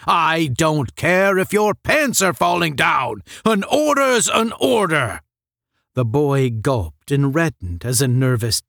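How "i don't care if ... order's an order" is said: stern rebuke. A narrator's reading. Supervisor berating cadet.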